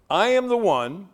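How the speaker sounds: AM lifted and rising; stress on I AM. Shown as a demonstration. Preacher stressing I am. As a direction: lean into the word am. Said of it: "I want you to note that what he said was".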